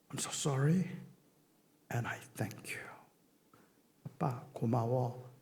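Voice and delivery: low, hushed apology fading toward a whisper; subdued, low retelling of crying words; imitated tearful words. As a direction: retell a tearful son's thanks, very softly. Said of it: "울면서 저한테 딱 두 마디를 해요".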